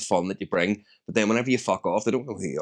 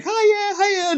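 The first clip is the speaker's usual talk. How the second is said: daddy phone voice; 4 dB louder than usual. Retold or imitated. Dad greets daughter on phone.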